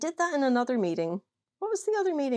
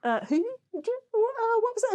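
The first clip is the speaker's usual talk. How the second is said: feigned innocence; 11 semitones higher than usual. Retold or imitated. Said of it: "I just sat there like".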